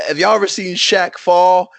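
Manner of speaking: imitated comedian addressing the crowd; Cat Williams. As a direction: throw it out like a comic's setup. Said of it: "Cat Williams is talking, and he's like".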